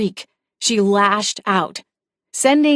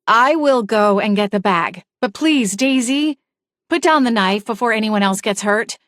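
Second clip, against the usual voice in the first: pleading, voice pushed up higher; raised higher voice; 2 semitones higher than usual. Acted. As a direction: lift the voice higher to calm a knife-wielder. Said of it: "raising my voice even higher".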